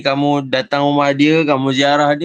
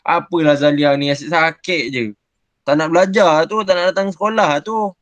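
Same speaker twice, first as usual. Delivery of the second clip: mocking complaint; 4 semitones higher than usual. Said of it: "cakap macam tu".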